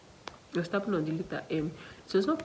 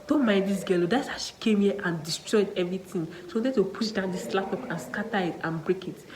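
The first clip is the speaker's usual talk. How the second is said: scolding examiner; 4 dB louder than usual. Retold or imitated. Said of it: "The man was not saying".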